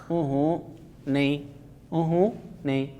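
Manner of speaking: sick man groaning a soft no; weak moan. Acted. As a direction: moan it weakly from the sickbed. Sick husband moans no.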